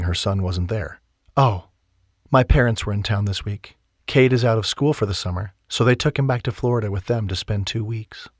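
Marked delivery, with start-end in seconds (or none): 1.4-8.3 lightly voiced heroine.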